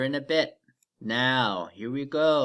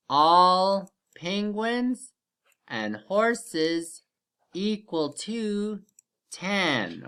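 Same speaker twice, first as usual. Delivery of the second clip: stretched out, word by word; slow down to stress it; slow emphatic; 4 semitones higher, much slower than usual. Shown as a demonstration. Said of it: "We're gonna do another".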